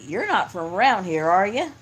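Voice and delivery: loud, teasing Southern locals' question; mock Southern drawl. Locals teasing the husband about his accent, in a hammed-up Southern drawl. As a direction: lean into a folksy Southern twang. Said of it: "they would always say".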